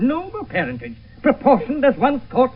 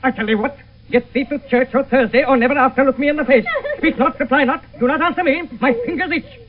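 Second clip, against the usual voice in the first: angry father. Acted. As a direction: threaten and rebuke her. Father berates Juliet.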